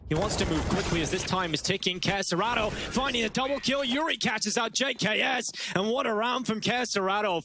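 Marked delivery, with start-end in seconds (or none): 2.0-7.4 excited call. Real, not acted. Casting a round-winning double kill.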